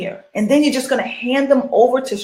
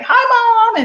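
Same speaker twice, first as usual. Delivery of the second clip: put-on kids greeting mom; 12 semitones higher, 3 dB louder than usual. Kids greeting mom after school.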